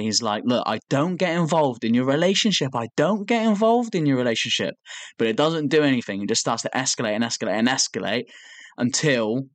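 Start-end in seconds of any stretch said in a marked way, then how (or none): 0.5-4.7 mock calm, pitch creeping higher; starting off calm. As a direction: imitate someone keeping calm, with strain building. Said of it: "he's starting to calmly say".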